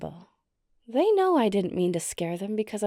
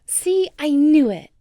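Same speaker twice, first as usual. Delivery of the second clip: loud, high victory cry; gleeful I knew it; triumphant gloat; 6 semitones higher, 11 dB louder than usual. Acted. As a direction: crow over being right. Friend admits wanting the human.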